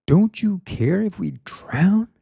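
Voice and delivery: high, breathless whispered plea; desperate whisper. Retold or imitated. Disciples waking Jesus in the storm, frightened whisper.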